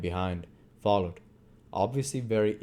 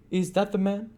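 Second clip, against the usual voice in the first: matron's voice; 12 semitones higher, 3 dB louder than usual. A narrator's reading. Matron voiced in read story.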